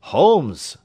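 loud alarmed cry of a name, pitched high. A narrator's reading. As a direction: call out his name in sudden alarm. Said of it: "I cried".

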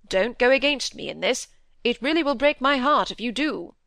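lightly voiced father, emphatic, pitch climbing; a touch of earnest pleading; pleading squire. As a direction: urge your son, building to an appeal. Squire urges and pleads with son.

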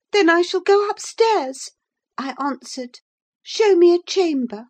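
lightly voiced prim visitor demanding his supper; indignant gentleman. Visitor to the old servant, mildly haughty demand.

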